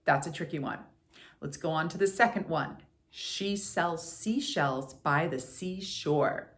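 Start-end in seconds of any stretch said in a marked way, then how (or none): 3.2-6.5 each S in "seashells" spoken slowly and sharply; slow crisp twister. Shown as a demonstration. Coach modelling the twister slowly for the class. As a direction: lay out every hiss slowly. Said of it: "enunciate all of those S's".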